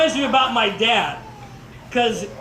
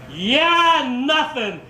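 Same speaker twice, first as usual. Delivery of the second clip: raised voice modelling the retort; demonstrated shouted comeback; 3 semitones higher, much slower than usual. Shown as a demonstration. Speaker teaching the audience their reply, calling out. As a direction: call it out to show the crowd how. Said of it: "stand up and say".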